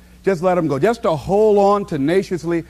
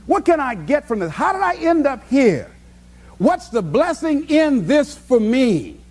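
inner questioning; 5 semitones higher than usual. Retold or imitated.

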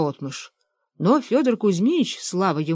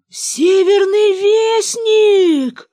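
high, slow, stretched-out yell; завопил; 14 semitones higher, 7 dB louder, much slower than usual. A narrator's reading. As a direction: bellow each word long and high like a frantic cry. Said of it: "завопил Бенедикт". (протяжный высокий вопль)

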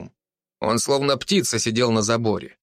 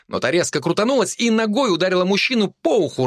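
ordinary delivery

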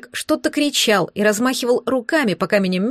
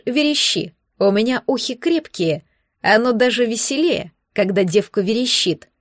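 mocking. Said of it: "проговорил с усмешкой".

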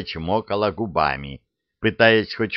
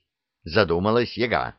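plain reading voice

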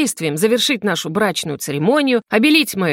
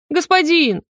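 higher, pleading howl; howling cry; 8 semitones higher, slower than usual. A narrator's reading. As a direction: cry out to the master in alarm. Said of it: "взвыл Кёгван". (взвыл, выше и громче)

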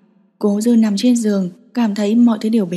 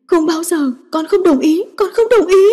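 higher and higher, last words yelled; shouting refusal; 8 semitones higher than usual. A narrator's reading. Granddaughter defying grandfather at the table, building to a shout. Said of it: "Ba chữ cuối cùng cô hét lên".

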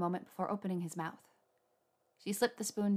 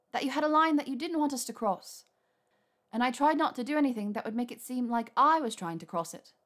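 put-on higher, louder hurt young woman; Hermione voice; 5 semitones higher, 4 dB louder than usual. A narrator's reading. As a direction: pour out the grievance.

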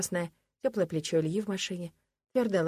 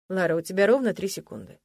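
ледяным тоном; 4 dB louder than usual. Acted. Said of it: "замораживающим тоном голоса".

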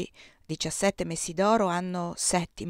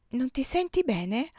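higher, worried call, not truly shouted; mild cry of alarm; 5 semitones higher than usual. Acted. Giulia calling to the fainting Désiré, mildly alarmed. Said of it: "gridò Giulia".

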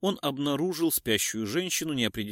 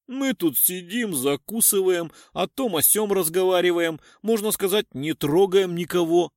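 mock aggrieved; 3 semitones higher, 4 dB louder than usual. Tramp mock-complaining to the cop.

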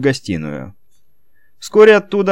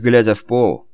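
ordinary delivery

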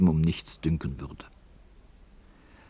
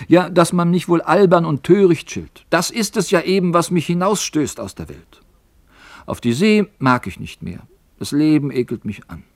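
put-on young sailor lamenting; 8 semitones higher, 3 dB louder than usual. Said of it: "»Ach«, erwiderte Elis".

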